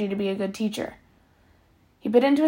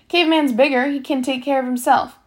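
snapping; 3 semitones higher, 4 dB louder than usual. Acted. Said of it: "snapped X-Ray".

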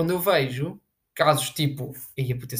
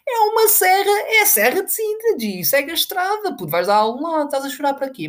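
mock exasperation; 12 semitones higher than usual. Mocking reply to crying girl.

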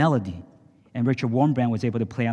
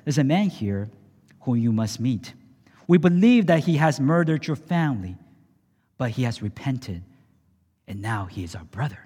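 gentle. Acted. Waking wife gently.

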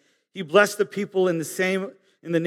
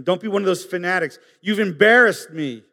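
mocking scorn; 3 dB louder than usual. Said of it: "this is what Michal, David's wife, is saying".

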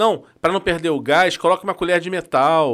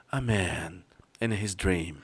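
very slow, low and soft trailer voice; hushed epic trailer narrator; movie trailer voice; 10 semitones lower, 12 dB quieter, much slower than usual. Retold or imitated. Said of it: "Começava com". (voz grave de trailer de filme)

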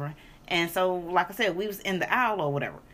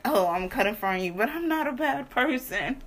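mock housewife; 3 semitones higher than usual. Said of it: "some housewife shit".

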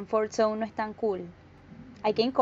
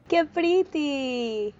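drawn-out delight; 4 semitones higher, much slower than usual. Real, not acted. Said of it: "reacting to story".

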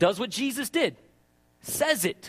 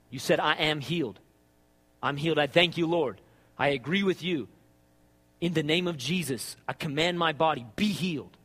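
bold confession; 7 semitones lower than usual. Shown as a demonstration. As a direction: claim the healing like you mean it. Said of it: "You don't have to say it with that kind of attitude, I do".

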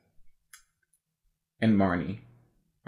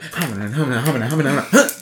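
aggressive spellcasting; 3 dB louder, faster than usual. Retold or imitated. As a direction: mimic an aggressive witch muttering spells, building to a peak. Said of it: "'cause she's so aggressive".

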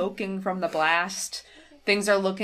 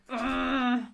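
imitated grumble; 5 semitones higher than usual. Kaiba sitting there, imitated grumble.

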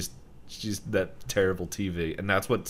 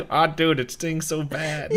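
higher, louder pained whine; hurting Soos; 9 semitones higher, 6 dB louder than usual. Retold or imitated. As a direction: wail about the sting, half laughing. Soos maced, rolling on ground.

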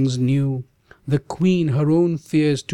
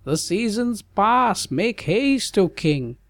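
much higher, light teasing sage voice; smiling sage; 9 semitones higher than usual. Acted. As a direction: nudge the king with a smile. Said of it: "he said and smiled".

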